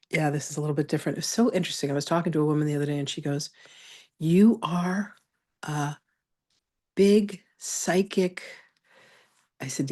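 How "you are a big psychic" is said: hushed, slow, secretive aside; mock whisper. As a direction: lean in and breathe it as a secret. Retelling a woman's hushed remark.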